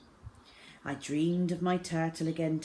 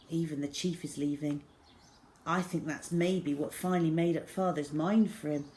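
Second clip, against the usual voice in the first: ordinary delivery, nothing marked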